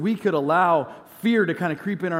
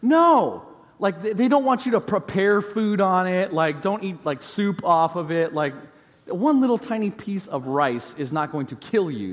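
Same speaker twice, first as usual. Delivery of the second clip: exasperated wife; 3 semitones higher than usual. Retold or imitated. Wife scolding husband about the charger, exasperated. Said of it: "she basically says to me".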